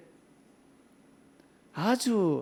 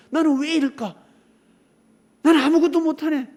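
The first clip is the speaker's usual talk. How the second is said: whiny self-pity; 10 semitones higher, 8 dB louder than usual. Retold or imitated. Voices self-cursing person.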